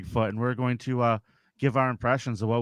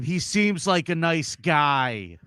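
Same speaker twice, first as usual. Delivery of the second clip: Bigfoot impression; 3 semitones higher, slower than usual. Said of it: "Here's mine".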